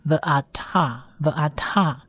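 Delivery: ve'atah said slowly in separate syllables, final h silent; model pronunciation. Shown as a demonstration. Teacher models the word with silent hey, slow syllable-by-syllable ve'atah. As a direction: draw out ve'atah, ending on an open a. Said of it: "它不发音".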